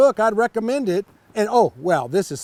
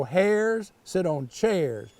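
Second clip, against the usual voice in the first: slow rhyme read; slower than usual. Shown as a demonstration. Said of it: "how those words rhyme".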